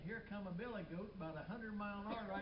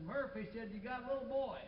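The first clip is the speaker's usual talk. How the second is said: mock holler; 4 semitones higher, 4 dB louder than usual. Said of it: "old Doc hollered out".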